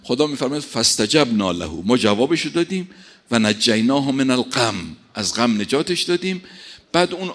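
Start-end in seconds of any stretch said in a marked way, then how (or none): 0.6-1.8 slow Quranic recitation. Acted. Verse recited. 3.3-5.0 slow Quranic recitation. Acted. Verse recited.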